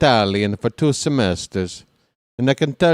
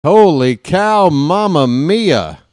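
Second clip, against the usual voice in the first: higher and louder, yelling with joy; home run call; 7 semitones higher, 6 dB louder than usual. Real, not acted. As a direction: lose it over a massive homer.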